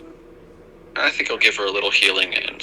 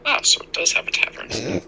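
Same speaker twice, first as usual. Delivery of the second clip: whispering; 7 semitones higher, 4 dB quieter than usual. Real, not acted. Aside at the table.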